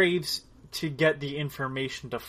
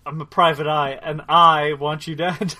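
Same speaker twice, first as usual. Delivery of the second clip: menacing private eye; 5 dB louder than usual. Retold or imitated. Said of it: "redoing the private eye quote".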